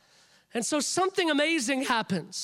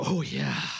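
eager agreement. Retold or imitated. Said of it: "And I would go".

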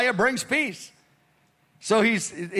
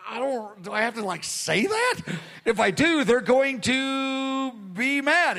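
reluctant whine; 2 semitones higher than usual. Pretend. Voicing a reluctant believer.

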